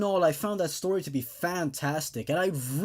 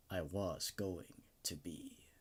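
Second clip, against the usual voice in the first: whisper; 6 semitones lower, 12 dB quieter, slower than usual. Acted. Story's grim final realization.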